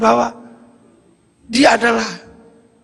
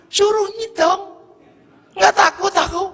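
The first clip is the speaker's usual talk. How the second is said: defiant; 11 semitones higher than usual. Retold or imitated. Defiant villager.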